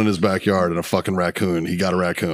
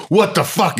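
higher, stunned disbelief; shocked at his own shredded legs; shocked exclamation; 8 semitones higher than usual. Retold or imitated. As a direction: react to the sight of the wounds. Sees wounds in flashlight.

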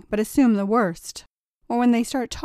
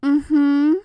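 choked-up mm-hmm; 5 semitones higher, 7 dB louder than usual. A narrator's reading. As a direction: force it past a lump in the throat. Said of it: "choked out a".

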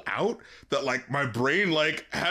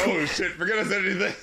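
laughing mock retraction; 3 semitones higher, faster than usual. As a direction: take it back, laughing.

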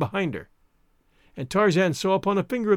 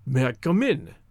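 guttural Rokoff; 5 semitones lower than usual. Acted. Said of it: "in Rokoff's now familiar guttural".

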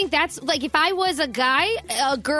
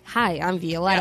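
much lower, put-on dating-profile voice; put-on self-introduction; 8 semitones lower than usual. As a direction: drop low to present yourself on a dating prompt. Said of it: "you can kind of present yourself like".

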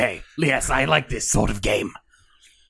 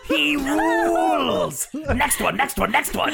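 game show host; 13 semitones higher, slower than usual. Acted.

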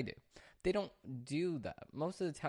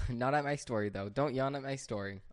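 laughing; 4 dB louder than usual. Real, not acted. Teasing yawning dog Winston.

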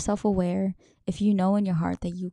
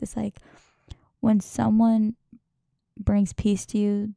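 usual speaking voice

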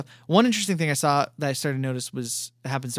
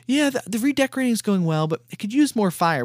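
higher, casual cheerful report; mock-casual princess making a light request; airy and unbothered; breezy retelling; 6 semitones higher than usual. Voicing cheerful princess amid genocide.

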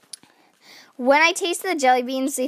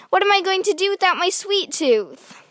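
put-on high pleading kid voice; a little girl at a loss; despairing child; 7 semitones higher than usual. A narrator's reading. Girl wails about her missing sweet tooth, high.

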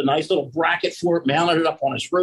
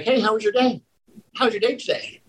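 higher, bright greeting as the wife; cheery wife; 7 semitones higher than usual. Retold or imitated. Wife greeting husband home after work, lightly voiced.

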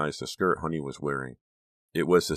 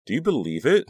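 high, loud happy exclaim; happy cry; 9 semitones higher, 7 dB louder than usual. A narrator's reading. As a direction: cry out with delight. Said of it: "Honey cried happily".

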